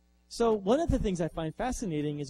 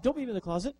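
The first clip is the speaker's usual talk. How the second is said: high, frightened begging; scared plea; 6 semitones higher, faster than usual. Retold or imitated. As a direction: beg not to be shut in. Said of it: "And the robot says".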